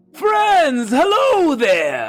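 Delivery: loud, high, booming shout. As the party docks, King Terminus waves and greets them, booming yell. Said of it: "yelling with a booming voice".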